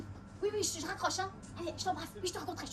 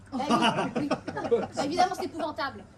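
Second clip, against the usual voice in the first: laughing; 7 dB louder than usual. Acted. Laughs telling mother of betrayal.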